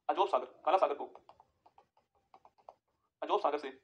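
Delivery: word groups dictated with long pauses; dictation. Real, not acted. Teacher dictating notes to the class, broken by long pauses. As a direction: dictate it piece by piece, leaving time to write.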